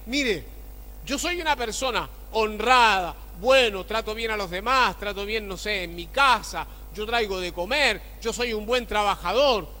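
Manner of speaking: a hint of a proud man listing his good deeds; self-righteous believer.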